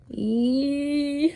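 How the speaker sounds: sudden high yelp of pain; high howl. A narrator's reading. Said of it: "howled Mister Magee".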